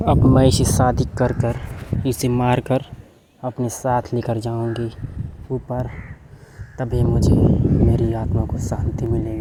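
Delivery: loud, gloating threat; menacing witch shout. Acted. The witch tells Hema she will kill Vipin, shouting.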